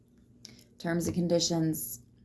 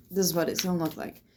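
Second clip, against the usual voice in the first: talking through hiccups; faster than usual. Real, not acted. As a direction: speak while hiccuping. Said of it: "Sorry about the hiccups".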